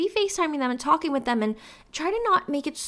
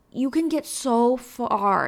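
a real crack in the voice; much slower than usual. Real, not acted. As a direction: voice cracks on the phrase. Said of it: "my voice cracked there".

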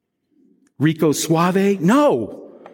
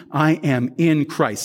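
slow, measured creed; leading a recitation; slower than usual. Shown as a demonstration. Pastor modelling a declaration for the congregation, slow recitation. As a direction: say it slowly for others to repeat. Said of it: "Say that with me".

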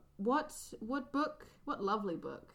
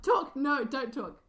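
loud, high playful order; bossy outburst, pitched up and punchy; mock command; 5 semitones higher, 7 dB louder, slower than usual. Teasing her co-host to talk, then not to, in a loud mock command.

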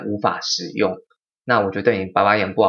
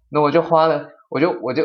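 exasperated laugh; 5 semitones higher than usual. Real, not acted. Telling the listener about hours spent calming them, laughing. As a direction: laugh in disbelief at the wasted time.

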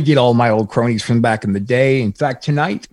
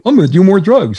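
mock self-pity; 7 semitones higher, 7 dB louder than usual. Sarcastic inner voice after dad's insult.

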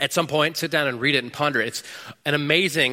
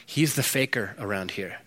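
imagined accusing Jesus; 3 semitones lower, 5 dB quieter than usual. Pretend. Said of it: "be like".

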